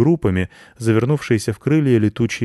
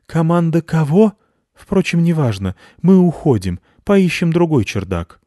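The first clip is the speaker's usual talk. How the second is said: high, loud squeaky bat voice; confused bat leaving, high-pitched; high bat voice shrugging it off; puzzled bat; 9 semitones higher, 5 dB louder than usual. A narrator's reading. Head bat voice.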